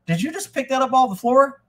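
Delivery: disbelieving mock chef; shocked Gordon. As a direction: imitate Gordon catching a cook out. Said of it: "And Gordon goes".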